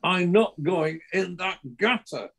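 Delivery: a hint of the fish voice; lightly voiced fish. Comedian retelling the fish gag in the fish's voice. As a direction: quote the fish's punchline in its voice. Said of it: "And the fish said".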